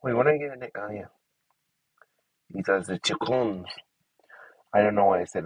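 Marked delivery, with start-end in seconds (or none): 2.5-3.7 put-on playful, poor French accent. Player naming the chickens in a game, bad French accent. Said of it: "it's a French accent".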